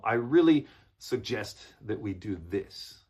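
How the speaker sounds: stronger, with weight on "really"; firm suggestion. Shown as a demonstration. Coach models executive English for students, firm. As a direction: direct and polite, landing "really". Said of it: "a little stronger, in other words".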